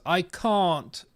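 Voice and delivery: a toddler's light Australian accent, copying a cartoon. Son refusing chicken, in a light Australian accent. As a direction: mimic the child's Bluey-style Australian accent. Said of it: "in an Australian accent".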